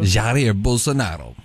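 Jair Bolsonaro in a slow Italian accent. Shown as a demonstration. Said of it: "I felt like I was doing an Italian accent".

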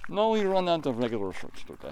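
lightly put-on Russian accent. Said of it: "Russian than Icelandic for the accent".

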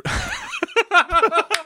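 high-pitched put-on laugh; fake laugh. Co-host breaking off his own beer joke, fake laugh. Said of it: "that was fake".

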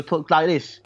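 attempted Anglo-Italian accent; light demo of an Anglo-Italian accent. Shown as a demonstration. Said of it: "make him sound Anglo, Anglo-Italian".

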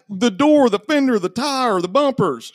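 high, heated listing of the damage; retold angry listing. Owner listing the truck's damage to the mechanic, high, heated. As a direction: spit out every dent one by one.

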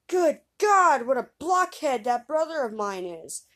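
high, loud scornful exclamation; elder brother scoffing loudly at his dim sibling. Acted. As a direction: sneer at the blockhead brother.

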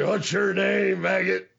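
lightly voiced drill sergeant barking at the interviewer; a hint of a stern Marine drill instructor; Sergeant Slaughter impression. The host retells a wrestling promo as a mild drill sergeant bark. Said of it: "Slaughter impersonation".

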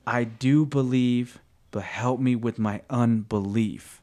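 slow, emphatic confession, easing off; thrown-out plea. Retold or imitated. The father confronting his unbelief to Jesus, emphatic plea. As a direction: throw the words out as an honest plea. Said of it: "he threw it out to Jesus".

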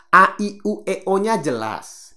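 each vowel A, I, U, E, O opened wide and loud; clear vowels. Shown as a demonstration. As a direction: shape every vowel crisply.

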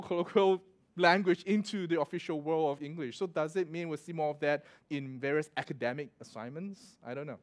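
ordinary delivery

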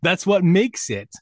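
joking lightly Cockney voice; Cockney accent. Pretend. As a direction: keep a hint of Cockney while explaining. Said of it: "Every sentence has to have governor in it".

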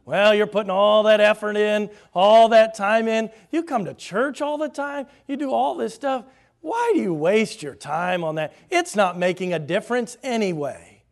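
the devil scoffing at faithful workers, mocking. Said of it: "make fun of the work".

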